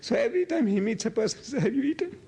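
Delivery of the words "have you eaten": welcoming offer. Retold or imitated. Host welcoming a guest to eat.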